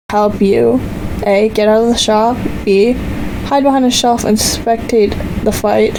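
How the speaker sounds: even, storytelling read to viewers; story narration. A narrator's reading. Narrator reading a fantasy adventure to viewers, storytelling.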